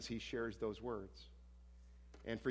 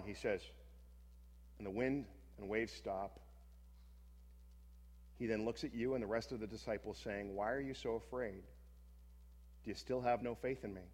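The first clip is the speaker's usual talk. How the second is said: guided scripture meditation. Acted. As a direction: lead the listeners into the scene gently.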